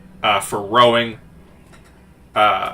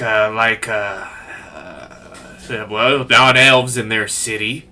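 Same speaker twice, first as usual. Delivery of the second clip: put-on boatman with a light Southern accent. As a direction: explain it in an easy Southern accent. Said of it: "I don't know why I got southern".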